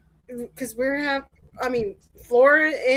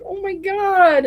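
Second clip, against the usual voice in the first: high, slow and louder gasp of disbelief; shocked oh my god; 8 semitones higher, 5 dB louder, slower than usual. Retold or imitated. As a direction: draw it out in shock. Hearing of tornado sirens.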